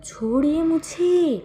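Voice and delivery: drawn-out, high pleading cry; whiny plea. Acted. Wing begs Wang ji to let go, drawn-out high plea. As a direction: stretch it out, begging to be released.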